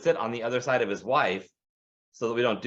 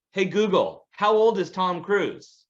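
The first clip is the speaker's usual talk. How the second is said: mock phone voice, higher and louder, very slow on the question; talking to phone; 7 semitones higher, 4 dB louder, slower than usual. Neighbor asking Google mid-movie, a mock slow, overly clear voice. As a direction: spell it out for the phone, imitating the neighbor. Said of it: "talking into his phone".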